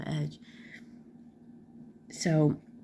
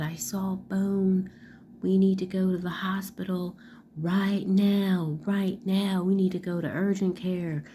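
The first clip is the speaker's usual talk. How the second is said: imitating panicked son; 4 semitones higher than usual. Son to mom about his cut, lightly voiced panic. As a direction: act out the scared kid, a bit higher. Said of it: "he starts hysterically screaming".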